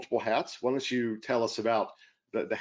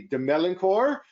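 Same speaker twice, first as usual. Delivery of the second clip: put-on name said with a French accent; French pronunciation of the name; 8 semitones higher, 6 dB louder than usual. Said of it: "I'm trying to do my French, uh, accent".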